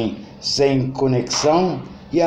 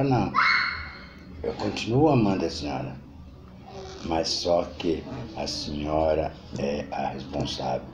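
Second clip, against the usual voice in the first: bitter son. Acted. Son blames mother in court. (filho condenado acusando a mãe, voz mais grave e baixa)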